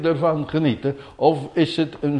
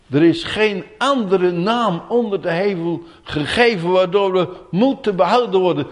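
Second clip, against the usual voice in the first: ordinary talk, nothing marked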